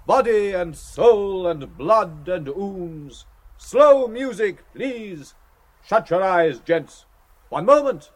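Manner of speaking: theatrical preacher with swelling, emphatic phrases; preacher's tone. A narrator's reading. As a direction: preach it solemnly to a congregation, stretching the key words. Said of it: "He added, in a preacher's tone".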